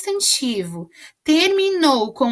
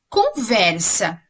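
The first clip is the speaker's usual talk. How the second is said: slow demo word; 3 semitones lower, slower than usual. Shown as a demonstration. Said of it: "a palavra".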